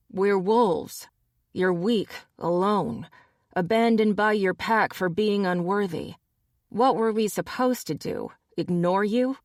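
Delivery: a hint of a punk; sneering wolf. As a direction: sneer down at her. Gary sneers at Tabby.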